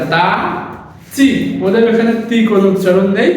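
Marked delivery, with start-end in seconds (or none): 0.1-1.3 চি said as chi, not তি. Shown as a demonstration. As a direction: after তা say চি with a ch sound. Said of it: "তি হবে না".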